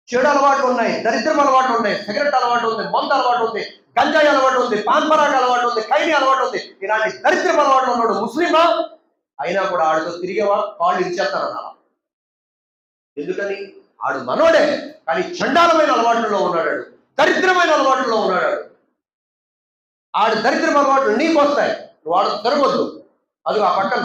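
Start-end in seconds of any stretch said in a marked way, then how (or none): 0.1-8.6 louder, rising list of vices, each one hammered; forceful preaching. Real, not acted. Preacher warning the congregation about vices, loud and forceful. 14.0-22.8 loud, stressed condemnation; forceful warning. Real, not acted. Preacher telling parents to keep children away, loud and stern.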